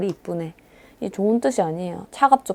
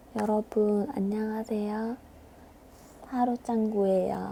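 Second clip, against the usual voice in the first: very quiet, soft, gentle, nice-sounding delivery; 2 semitones higher, 9 dB quieter than usual. Showing that speaking quietly seems less like a liar: quiet, soft-spoken delivery. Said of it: "조용조용하게 말하면 사람이 거짓말쟁이처럼 안 보여요 ... 이러면 좀 더 착해 보이잖아".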